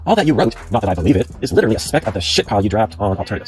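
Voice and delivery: emphatic read-aloud of an angry post. Acted. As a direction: read the accusing post out with mild indignation.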